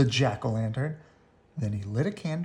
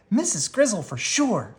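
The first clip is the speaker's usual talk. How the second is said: Sister voice; 8 semitones higher than usual. A narrator's reading.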